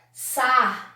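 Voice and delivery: SARNHADI split as sar, nha, di; syllable by syllable. Shown as a demonstration. Teacher testing whether sarnhadi exists, syllable by syllable. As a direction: sound out sarnhadi in spaced syllables. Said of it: "Até difícil da gente, é, pronunciar".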